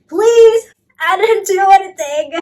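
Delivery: high, loud mock begging; panicked pleading. Dad pleading with screaming fairy.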